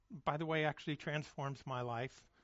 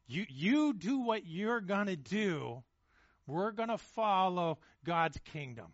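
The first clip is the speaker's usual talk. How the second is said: slow and firm, a touch louder; defiant, slow; 2 semitones higher, 4 dB louder than usual. Retold or imitated. Preacher voicing Paul to his persecutors, slow defiance. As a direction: stand your ground and spell it out.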